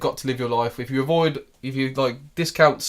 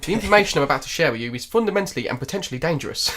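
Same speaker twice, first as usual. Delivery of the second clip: put-on quick Cockney accent, lightly done; 2 semitones higher, faster than usual. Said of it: "in a very Cockney accent".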